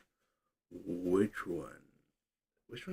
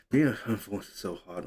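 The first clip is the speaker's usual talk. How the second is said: sarcastic; faster than usual. Acted. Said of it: "That was sarcasm".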